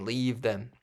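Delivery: usual speaking voice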